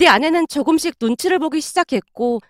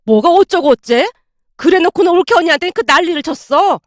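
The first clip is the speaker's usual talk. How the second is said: raised, indignant retort; sharp rebuke; 4 semitones higher, 3 dB louder than usual. Acted. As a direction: throw the accusation back crossly. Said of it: "아내에게 쏘아붙이고 있었고".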